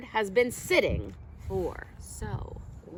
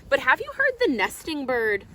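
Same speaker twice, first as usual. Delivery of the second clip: louder, calling question to the listeners; louder storytime question; louder refrain; 3 semitones higher, 6 dB louder than usual. Acted. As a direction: ask the children out loud. Refrain read to children.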